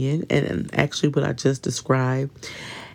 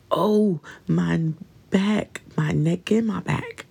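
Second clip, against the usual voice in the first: hammed-up aches-and-pains whine, a bit higher; mock whining complaint; 3 semitones higher than usual. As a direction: whine it like a hypochondriac friend. Mocking a hypochondriac's complaints.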